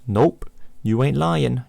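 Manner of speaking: slow, casual slang reply; slow drawn reply. Acted. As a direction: stretch it out lazily. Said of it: "you reply".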